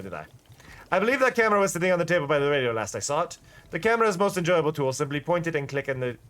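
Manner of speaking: lightly voiced chatty shopkeeper; fake accent shopkeeper. Shopkeeper Boro explaining the camera, mild fake accent. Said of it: "with the fake accent".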